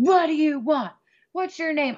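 high, mean, disrespectful angry screaming. Retelling how you screamed at spirits before passing out, reenacting the screaming. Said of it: "I'm like screaming at them".

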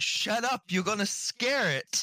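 shouting. In character, yelling at a guard to be quiet: yelling at a man. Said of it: "I'm just kind of yelling at the man".

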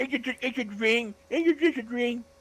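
very high, mocking put-on child voice. Retelling how a wrestler taunted another man like a bullying little kid, retelling Brock's mocking kid voice. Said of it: "Really mocking voice".

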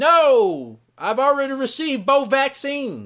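put-on, deliberate, loud, drawn-out shout. Acting out an intruder shouting back an answer: acting out a shout. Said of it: "they're gonna shout back".

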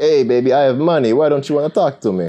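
put-on Italian accent, loud and high. Acting out a rich guy trying to get a girl to talk to him, put-on italian accent. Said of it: "I don't know if he would have that accent".

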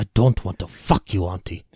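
deep, very low put-on Spanish accent. Joking about a show's hero, voicing him in a Spanish accent. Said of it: "Why is he Spanish?".

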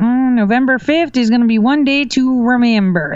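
put-on country accent, not yet perfected. Answering a question about November 5th, trying out a country accent. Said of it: "That was my country accent right there".

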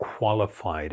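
leaning on the word qualified. Explaining spiritual practice and the guidance needed, stressing the word qualified. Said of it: "I'm stressing the word qualified".

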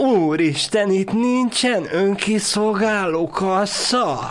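put-on very high, slow, drawn-out, embarrassingly loud child voice. Showing how the child said it, imitating an embarrassingly loud child. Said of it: "szinte már kínosan hangosan".

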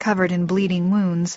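plain reading voice

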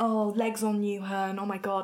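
mock, slow, really sarcastic, stereotypical gushing. Mocking friends' comments on Instagram posts, mimicking really sarcastic comments. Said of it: "try and be really sarcastic and like stereotypical with it".

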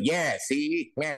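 put-on very nasal 1920s old radio gangster voice. Imitating the old movie accent: super nasal 1920s mobster voice. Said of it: "super nasal mobster slash radio guy".

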